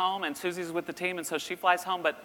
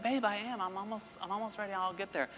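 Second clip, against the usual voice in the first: soft, higher-pitched reassurance; placating; 6 semitones higher, 8 dB quieter than usual. Retold or imitated. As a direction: soothe her quietly, pitched up. Dad placating his whispering daughter.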